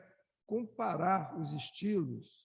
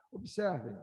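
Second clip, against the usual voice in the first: normal talking voice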